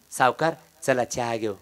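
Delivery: soft, low, meek invitation; humble debtor. Acted. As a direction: plead quietly with bowed head. (कर्जदाराचा नम्र हळू आवाज)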